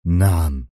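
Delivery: short, terse reply; curt yes. A narrator's reading. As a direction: cut it short. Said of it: "في اقتضاب".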